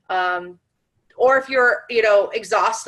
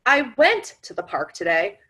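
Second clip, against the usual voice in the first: I went to the park today with "went" hit; stress on WENT. Shown as a demonstration. Demonstrating emphasis to listeners, stress on "went". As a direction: lean on "went" only. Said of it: "depending on what you emphasize".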